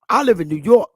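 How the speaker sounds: demonstrated New York local accent. Shown as a demonstration. Speaker showing how a New York local talks, New York accent. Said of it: "when you hear a New York aborigine talk".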